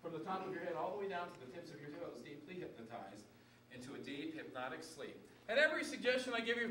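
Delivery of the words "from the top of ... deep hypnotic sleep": stage hypnotist putting volunteers under; hypnotist induction. Acted. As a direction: lull them down into trance.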